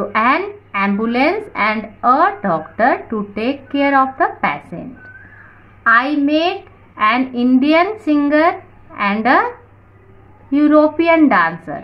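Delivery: slow, measured English read-out; teacher reading aloud. Shown as a demonstration. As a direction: read the rule out word by word. Reads example sentences slowly. (धीरे-धीरे पढ़कर सुनाना)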